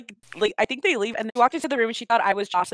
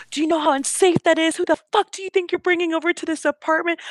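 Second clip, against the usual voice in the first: retold scolding; 6 semitones higher than usual. Friend's mom confronting the roommate, imitated scolding. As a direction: scold in a raised pitch without yelling. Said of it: "She's literally yelling at this girl".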